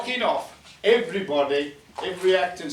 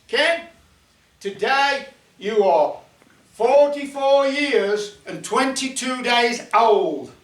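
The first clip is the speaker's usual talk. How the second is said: higher, louder, slow goblin pronouncement; 4 semitones higher, 5 dB louder, slower than usual. Acted. Goblin telling Ken his exact age, slow and raised. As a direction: spell it out slowly like a solemn goblin. Goblin announces Ken's trip point.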